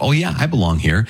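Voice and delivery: high, breezy self-assured tone; mock complacent. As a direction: play the smug insider, lightly. Mocks a complacent reaction.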